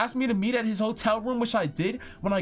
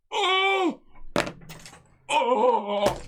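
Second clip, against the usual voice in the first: high loud shocked oh; shocked cry; 6 semitones higher, 3 dB louder than usual. Real, not acted. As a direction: gasp out in shock. Shocked reaction.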